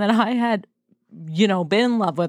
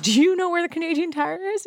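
dad voice; 10 semitones higher, faster than usual. Retold or imitated. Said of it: "He's like".

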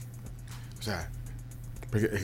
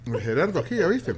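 talking while chewing; mouth full; 3 semitones higher than usual. Real, not acted. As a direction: speak through a mouthful of cake. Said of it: "perdón que estoy comiendo".

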